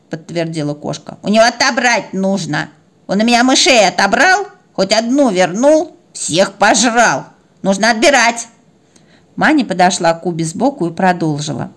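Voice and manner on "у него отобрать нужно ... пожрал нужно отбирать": aggrieved tattling, insistent; indignant cat. Acted. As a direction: complain with rising outrage about the thief. Cat complains about the dog. (возмущённая кошка жалуется)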